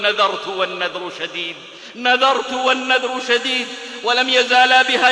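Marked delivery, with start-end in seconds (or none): 0.0-1.6 low, subdued retelling of a weeping vow; retold tearful vow. Aisha recalling her vow to those pleading with her, subdued and tearful. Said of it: "وتبكي وتقول". 1.9-3.7 the weeping vow repeated at a raised pitch; retold insistent vow. Aisha repeating her vow to those pleading with her, mildly insistent. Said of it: "وتبكي وتقول".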